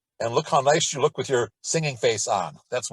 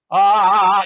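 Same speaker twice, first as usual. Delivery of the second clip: much higher, loud piercing ah; Jerry Lewis piercing ah; 5 semitones higher, 11 dB louder than usual. Shown as a demonstration. Teacher demonstrating narrowed tract, piercing loud ah. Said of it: "a piercing sound like Jerry Lewis".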